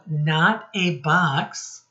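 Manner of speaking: slow, deliberate reading of the title; title read slowly. Shown as a demonstration. Teacher reads the book title to children, slowly. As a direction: draw out each word of the title. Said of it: "Looking at the title".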